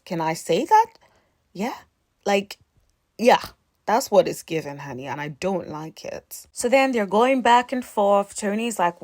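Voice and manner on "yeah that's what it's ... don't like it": usual speaking voice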